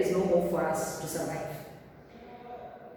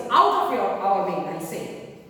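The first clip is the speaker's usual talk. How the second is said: boatswain's rude shout; 3 semitones lower than usual. Acted. Teacher acts boatswain shouting at courtiers.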